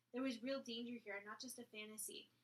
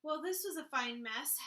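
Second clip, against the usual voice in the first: mother's saying; 4 semitones higher, 10 dB louder than usual. Acted. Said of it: "as her mother used to say".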